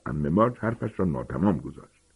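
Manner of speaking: ordinary delivery, nothing marked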